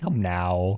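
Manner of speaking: very disappointed, low, put-on let-down tone. Retelling how she sounded saying her line, imitating a disappointed tone. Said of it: "she sounded very disappointed".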